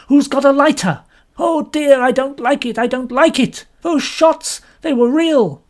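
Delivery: high, loud panicked cries; panicked voices. A narrator's reading. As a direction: panic in the dark. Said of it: "Various voices spoke at once".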